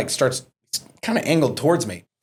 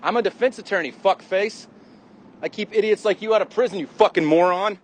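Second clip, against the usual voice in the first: retold comeback; 8 semitones higher than usual. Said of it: "You see the shit I gotta deal with".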